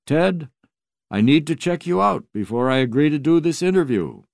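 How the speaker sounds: put-on high, lilting old professor voice; high sing-song voice. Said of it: "his high sing-song voice".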